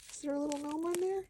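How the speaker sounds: rising to a high, loud, fast squeal, then a laugh; excited squeal. Real, not acted. Spotting a tiny gnome on the tea tag, squeal then laugh. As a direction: squeal with glee, laughing at the end.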